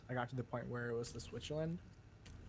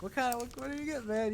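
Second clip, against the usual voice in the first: mock confused; 10 semitones higher, 5 dB louder than usual. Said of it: "I was like".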